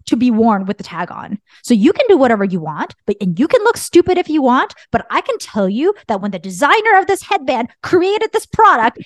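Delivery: retold forceful lecture, rising in pitch; emphatic parent driving each point home; coming on strong. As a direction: re-enact laying down the law. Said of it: "I'm coming on real strong".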